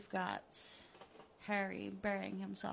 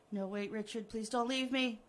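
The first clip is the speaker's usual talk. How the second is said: louder, desperate begging; pleading victim; 7 dB louder than usual. Acted. Buried Harry begging Richard to stay, desperate. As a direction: beg him not to leave.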